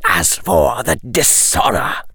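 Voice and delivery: cold nobleman. Acted. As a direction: lay down the law coldly. Lucius voice.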